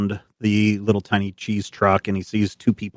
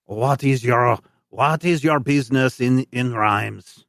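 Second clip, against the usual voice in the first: lightly voiced guard; 3 semitones higher, slower than usual. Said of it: "he says in his broken French".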